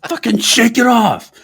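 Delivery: high, laughing slow parody; mock angry clerk. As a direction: growl it like the furious clerk. Audio of the guy, joke.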